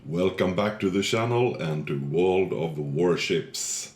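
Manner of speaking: stuffy nose from a cold; blocked nose. Real, not acted. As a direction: talk with a heavy head cold. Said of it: "sorry I have the man cold from hell right now".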